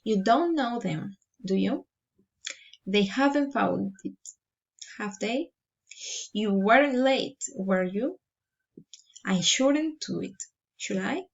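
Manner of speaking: statement first, then tags like "do you" lifted up; rising tag questions. Shown as a demonstration. Teacher models tag questions, "were you" and "should I" rising at the end. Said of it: "or rising intonations".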